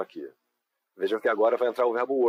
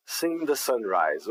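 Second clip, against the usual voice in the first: slow dictation; much slower than usual. Shown as a demonstration. Teacher dictating the next prompt very slowly. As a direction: say "Seen the sunrise" very slowly and clearly. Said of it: "teacher dictates next prompt".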